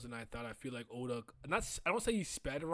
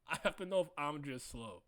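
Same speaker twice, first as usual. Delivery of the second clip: laughing through the words, softer; 3 dB quieter than usual. Real, not acted. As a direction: repeat it while cracking up. Repeats own question laughing.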